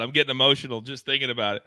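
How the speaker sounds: playful pretend choke-up; mock emotional, rushed. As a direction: rattle off the fake emotion quickly.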